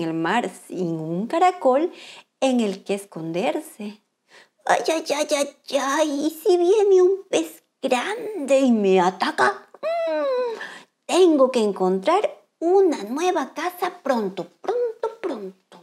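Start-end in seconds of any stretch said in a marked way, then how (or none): 4.7-15.8 fretful little crab voice, slow; worried crab. Acted. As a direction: worry aloud that a fish is coming. Worried crab fears big fish.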